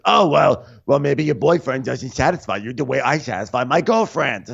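high, taunting mock comeback; Frank. Frank needling Gabby about her boyfriend, high mock comeback. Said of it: "He goes".

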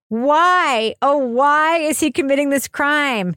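hammed-up plea for an answer; mock dramatic. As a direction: pose it like a melodramatic mystery. Mock-dramatic question put to the panel.

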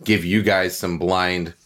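numb mouth, slightly slurred; numb from the dentist. Real, not acted. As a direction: talk through a numb mouth after the dentist. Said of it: "My, my mouth is numb 'cause I just came from the dentist".

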